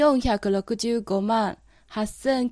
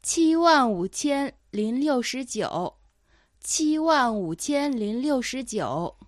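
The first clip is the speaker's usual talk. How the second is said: dictating. Shown as a demonstration. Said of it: "頑張ってそれを聞き取ってください".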